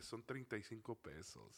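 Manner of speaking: unvoiced whisper of a secret discount; whispered price. Girl quietly gives him the discount price, whispered. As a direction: whisper it like a favor.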